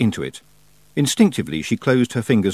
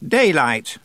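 sharp loud retort; snapping; 7 semitones higher, 3 dB louder than usual. A narrator's reading. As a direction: snap the word back. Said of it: "snapped Miss Treason".

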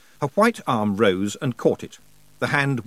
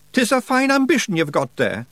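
high, broad Scots wee man, cheeky and gruff; a higher pitched Scots brawler voice; Scottish pictsie Rob; 11 semitones higher, 4 dB louder than usual. Acted. Pictsie chief thanking nobody for thanks, in a high Scots voice.

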